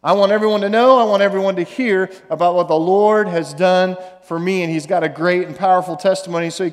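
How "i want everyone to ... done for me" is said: a mildly raised voice proclaiming praise; lightly louder joyful praise. Retold or imitated. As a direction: call it out like a testimony. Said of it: "Praised God in a loud voice".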